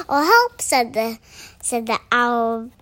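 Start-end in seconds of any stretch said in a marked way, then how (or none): 0.1-0.6 high, loud yelp for help; alarmed cry. Acted. Owl seeing the Gruffalo, high cry of alarm. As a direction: cry out in storybook fright.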